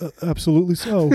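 Mamet voice. Retold or imitated. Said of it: "That's so good".

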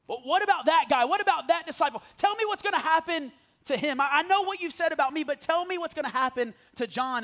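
loud, pressing Peter demanding answers; Peter pleading. Acted. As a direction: push hard as a worried Peter begging to know. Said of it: "he asked".

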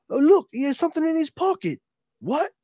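high, quick mock-alarmed voices; startled discovery. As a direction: play startled guards spotting something. Guards' sudden discovery, acted.

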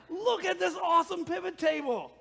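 high, loud, gushing excitement; excited showing off. Retold or imitated. Pastor showing Kristen his pivot table, loud excited showing off. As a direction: show it off like a thrilling discovery. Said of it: "I was so excited".

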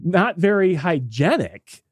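slow baffled echo; incredulous echo. Retold or imitated. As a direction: repeat it back as if stunned. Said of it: "And he's just like".

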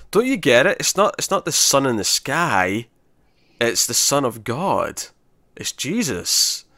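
drawn out, pausing between each phrase; slow revelation. Retold or imitated. Uhura correcting the crew about the sun, slowly revealing. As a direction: explain it with weighty, stretched-out key words.

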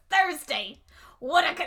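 lightly hammed-up celebrity voice; Natasha Lyonne. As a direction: announce it theatrically.

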